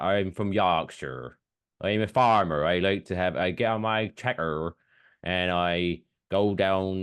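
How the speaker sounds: a light mock Yorkshire farmer accent. Host shows listeners how Yorkshire folk talk, light Yorkshire accent. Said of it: "so they talk like that".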